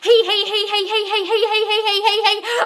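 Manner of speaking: high, loud giggle run; silly high-pitched tee-hee giggle; giggling. Acted. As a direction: cackle giddily at yourself. Giggling fit after obsessive quote.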